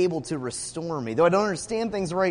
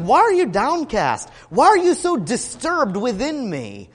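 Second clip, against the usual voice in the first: higher, imitated anguished plea; crying out; 4 semitones higher, 4 dB louder than usual. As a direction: voice David's raised questioning of himself. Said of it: "He cried out, he's like".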